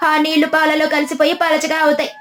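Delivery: triumphant accusation. Acted. Parvati exposing the trader's watered pot to villagers, triumphant. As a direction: announce the fraud to the whole village.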